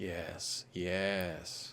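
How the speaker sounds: long, soft yes, breathed out. Talking through rugby picks, the speaker agrees: like Emperor Palpatine. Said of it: "I sound like Emperor Palpatine there".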